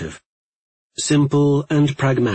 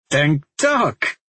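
chuckling; 4 semitones higher than usual. Acted. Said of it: "didn't keep a chuckle out".

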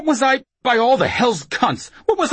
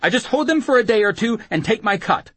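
high, louder frightened gabble; breathless confession; 11 semitones higher, 5 dB louder than usual. Acted. Whoremaster confessing at knifepoint, breathless frantic confession. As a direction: spill it all in one high, anxious stream. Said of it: "talk without breathing".

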